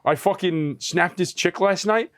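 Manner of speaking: a hint of a boastful Long Island kid; mock bragging kid. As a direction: drag it out like a proud little kid. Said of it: "He's like".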